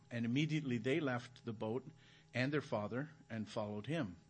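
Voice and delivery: measured, solemn Bible reading; scripture reading. Acted. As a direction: read the passage aloud to the congregation. Reads the scripture passage aloud.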